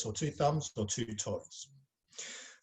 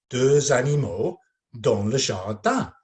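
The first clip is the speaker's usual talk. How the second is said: slow, louder title read; announcing the scene; 7 dB louder than usual. Shown as a demonstration. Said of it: "I'm going to say it".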